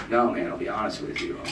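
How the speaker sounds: low, soft, defeated confession; a quiet mock breakdown; breaking down. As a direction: sink into it like a lost drunk finally admitting it. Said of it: "I, like, sort of broke down".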